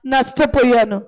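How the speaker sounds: slow, pleading prayer to Jesus; fervent prayer. Acted. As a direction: pour out the need before God. Pastor prays aloud for listeners. (వేడుకునే ప్రార్థన స్వరం)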